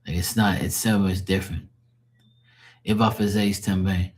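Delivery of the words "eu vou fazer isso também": brisk Portuguese, "também" ending in nasal "bayng"; Portuguese pronunciation. Shown as a demonstration. Demonstrating how I would say it, brisk Portuguese. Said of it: "That's what, how I would say it".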